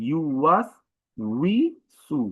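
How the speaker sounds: ইউ ওয়াস উইসু slow, with clear w glides; correct w sound. Shown as a demonstration. Teacher quotes Surah Nas as example, careful w. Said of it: "সঠিক উচ্চারণ হচ্ছে উই".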